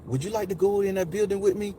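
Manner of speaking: gently inviting imitation; smooth woman's voice. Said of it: "it was just the smoothest".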